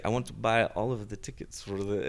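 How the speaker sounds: a light, hammed-up Italian accent; lightly voiced Italian husband buying tickets; bad Italian accent Claudio. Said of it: "That's a horrible accent".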